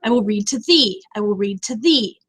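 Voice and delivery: "I will read to thee" landing firmly on THEE; stressed final syllable. Shown as a demonstration. Teacher demonstrating stressed line endings, "thee" stressed at the end. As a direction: say it twice, putting the weight on the closing "thee". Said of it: "meaning it's stressed".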